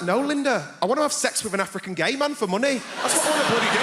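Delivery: hammed-up outraged comeback; sarcastic retort. Sarcastic retort to patronising nurse.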